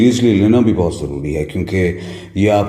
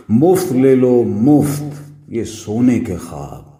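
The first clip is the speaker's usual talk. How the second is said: higher, ringing hawker's call; street vendor's cry; 4 semitones higher, slower than usual. Acted. Junk seller offers dreams for free, hawker's cry. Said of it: "मैं फिर से लगाता हूं सदा".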